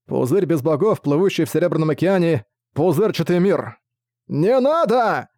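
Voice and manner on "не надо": high, slow anguished cry; desperate plea. Acted. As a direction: beg with everything. King begs in despair.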